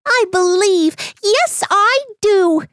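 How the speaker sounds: high, eager donkey voice; donkey bursting out. Acted. Donkey telling the man he believes, high and eager. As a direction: blurt it out with joyful faith. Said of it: "he repeated".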